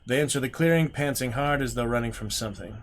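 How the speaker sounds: measured storyteller read, calm; gamebook narration. A narrator's reading. Streamer reading the gamebook aloud, steady storyteller voice. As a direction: read the marsh scene to viewers.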